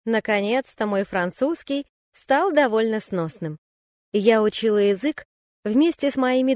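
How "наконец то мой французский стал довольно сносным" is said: plain reading voice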